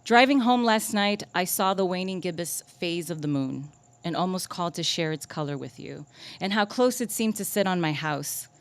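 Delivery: measured lyrical recital, strong opening; poetry reading. Acted. Poet recalling a drive home under the moon, measured recital. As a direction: recite it as an intimate night-time memory. Reads own moon poem.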